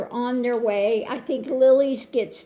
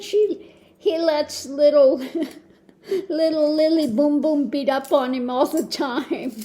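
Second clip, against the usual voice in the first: laughing; 3 semitones higher than usual. Retold or imitated. Quoting herself, laughing.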